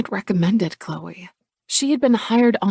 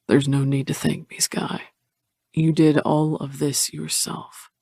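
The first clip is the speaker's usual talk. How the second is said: warm. Acted. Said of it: "My tone is warm".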